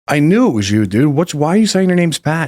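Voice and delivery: light mock thrill of spotting an old friend; surprised recognition. Retold recognizing old friend Jerry.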